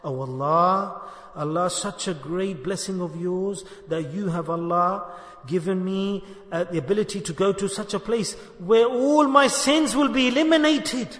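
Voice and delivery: humble, sincere plea to Allah, half sung; heartfelt inner prayer. Shown as a demonstration. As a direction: pray it inside, humbly grateful. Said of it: "inside your heart".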